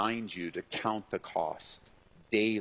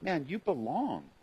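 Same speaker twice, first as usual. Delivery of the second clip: tender reassurance; 5 semitones higher than usual. Shown as a demonstration. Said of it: "change the tone of your voice".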